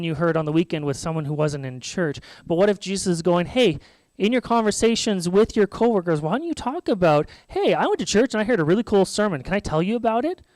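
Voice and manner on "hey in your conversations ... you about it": higher, eager imagined chat; upbeat urging. Acted. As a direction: pitch it up like sharing good news. Jesus urging casual church chat.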